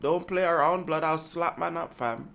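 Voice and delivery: put-on Toronto slang accent. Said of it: "Was that okay?".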